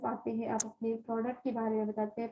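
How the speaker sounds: choppy, breaking-up connection; words dropping out over a bad line; voice cutting out. Real, not acted. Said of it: "ma'am, आपकी आवाज़ cut रही है।". (कटती हुई आवाज़)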